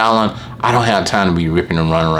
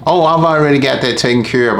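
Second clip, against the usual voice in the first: high, overly sweet customer voice; customer on the phone; 9 semitones higher than usual. Retold or imitated. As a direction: mimic a customer brushing you off politely, pitched high.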